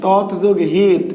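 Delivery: slow "তৎ যোগ হিত", parts kept separate; word split in parts. Shown as a demonstration. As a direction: sound tat and hit apart in "তৎ যোগ হিত". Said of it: "আরেকটা দেওয়া আছে".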